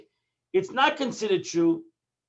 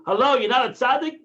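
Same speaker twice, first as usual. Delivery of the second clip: higher, louder sarcastic hello; scolding wife; 6 semitones higher, 6 dB louder than usual. Retold or imitated. Wife tells husband he is no tzaddik, sarcastic. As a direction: snap it back like a wife who knows better.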